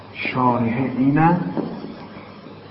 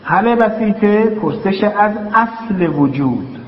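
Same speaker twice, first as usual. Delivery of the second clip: slow dictation; 6 semitones higher than usual. Shown as a demonstration. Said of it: "announcing the next heading".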